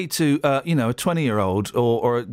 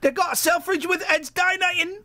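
high, hammed-up Brummie voice; sing-song Birmingham tune, pitched well up; mock Brummie asking Pamela out; Birmingham accent; 12 semitones higher than usual.

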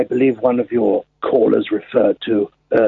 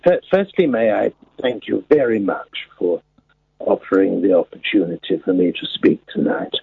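put-on very old man; 4 semitones lower than usual. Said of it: "would you like to speak in your real voice".

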